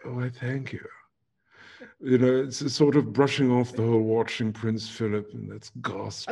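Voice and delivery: mock-royal English politeness; royal English accent. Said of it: "you do sound a bit royal".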